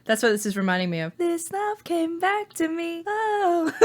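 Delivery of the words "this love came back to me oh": high singing with a shot voice; voice giving out. Real, not acted. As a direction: strain a tired voice up into the tune. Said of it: "my voice is, like, really shot right now".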